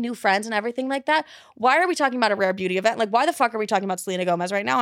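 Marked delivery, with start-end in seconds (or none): 1.5-4.8 fast, exasperated retort; annoyed. Retold or imitated. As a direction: rattle it off in mounting irritation. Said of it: "I'm getting really annoyed".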